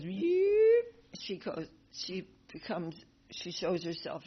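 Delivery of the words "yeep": tiny high squeak; a sudden high little yelp; baby squeak. Retold or imitated. The baby girl slipping from Kamsa's grip, tiny high squeak. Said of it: "the baby goes".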